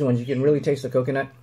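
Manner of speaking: words around a bite; talking while chewing. Real, not acted. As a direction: mouth partly full. Seen 1: Man held granola bar earlier; jaw still working, mouth half-closed, tasting.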